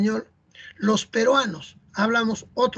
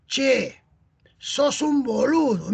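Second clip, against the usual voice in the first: lightly imitated Argentine, drawn-out vowels; Argentine accent; 3 semitones higher, much slower than usual. Argentine lad calling his friend a fool, in a light Argentine accent. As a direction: put on a slow Argentine lilt. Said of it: "Mira cómo le ha dicho".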